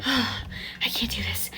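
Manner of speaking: slow, breathy whisper after a sigh; acted-out dread, whispered slowly; panicked whisper. Acting out dread before the shots.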